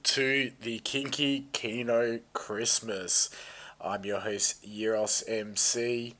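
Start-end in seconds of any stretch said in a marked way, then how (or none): 0.0-3.3 announcer voice. Acted. Host opening the stream show.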